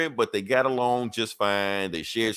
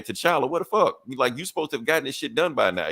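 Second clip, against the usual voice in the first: mildly exasperated, higher-pitched scolding; retold pissed-off demand; 3 semitones higher than usual. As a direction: imitate a fed-up team leader, a touch heated. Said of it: "Cap's getting pissed".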